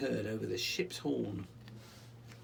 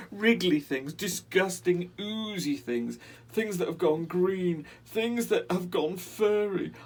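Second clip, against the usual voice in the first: high, loud, pleading rat voice close to tears; a frightened little rat begging to be understood; tearful little rat; 7 semitones higher, 8 dB louder than usual. Acted. Little rat pleading to the boy, high and tearful. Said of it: "the little rat begins to cry".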